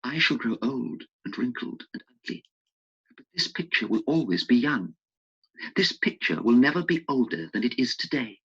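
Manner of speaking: lightly voiced young man, growing urgent; a hint of a longing young man; Dorian. Dorian wishing the picture would age instead, in a lightly urgent voice.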